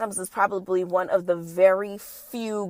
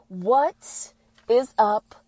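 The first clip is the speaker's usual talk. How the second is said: drawn-out greeting; 2 semitones higher, much slower than usual. Real, not acted. Podcast intro greeting.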